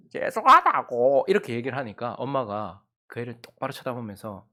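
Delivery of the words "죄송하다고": louder, drawn-out sob-laugh apology; crying or laughing. Retold or imitated. Child apologizes again to mom, between sob and laugh. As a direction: sob and laugh at once while saying sorry. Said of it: "우는 건지 웃는 건지".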